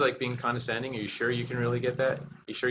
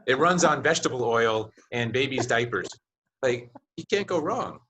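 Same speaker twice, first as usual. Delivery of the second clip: pet talk salesman. Pretend. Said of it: "if I were the salesperson, I'd be like".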